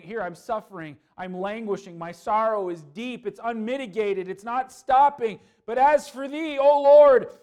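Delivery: starts even and builds to a loud, high cry on O Lord; David's anguished plea. Acted. Preacher voicing David's plea to God, building to a loud cry. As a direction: climb from lament to a desperate shout. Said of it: "It's almost like he was saying".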